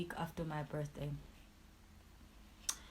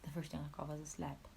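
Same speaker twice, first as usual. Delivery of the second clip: soft repeat; 7 dB quieter than usual. Real, not acted. Repeating the slap to viewers, soft and stunned. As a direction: drop the same line to a hush.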